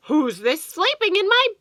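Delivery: high, loud little-bear cry; crying baby bear. Acted. Baby bear crying out at the girl in his bed. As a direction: cry it out like a tiny upset bear. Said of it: "cried Baby".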